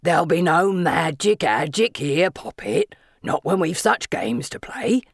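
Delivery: taunting sing-song, swooping low; Asriel's sing-song voice. A narrator's reading. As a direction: toy with them in a villain's lilt. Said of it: "Asriel's sing-song voice rings out".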